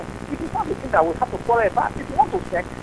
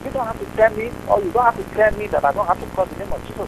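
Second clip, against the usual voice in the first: louder, indignant defence of faith; heated protest; 2 semitones higher, 6 dB louder than usual. Real, not acted. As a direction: fight back for his right to pray. Caller defends his faith angrily.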